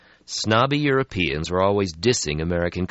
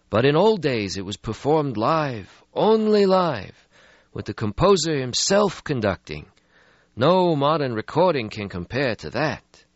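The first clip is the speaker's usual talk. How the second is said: put-on weary old vampire; 9 semitones higher, 4 dB louder than usual. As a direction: sigh out an ancient regret. Stretsky voiced in story.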